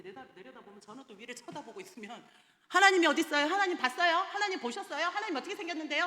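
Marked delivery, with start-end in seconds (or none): 2.7-6.1 high, rapid mocking questions from kids; children taunting the teacher, much higher and speeding up; firing questions. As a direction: fire them off like cheeky children. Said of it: "막 쏘아대요".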